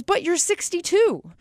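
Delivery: a touch of mock shock at her father; Missus Maisel, shocked. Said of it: "And Missus Maisel goes".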